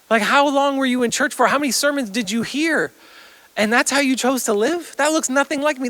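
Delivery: loud, high-pitched, incredulous scolding; appalled rebuke. Acted. Jesus voiced judging a disappointing life.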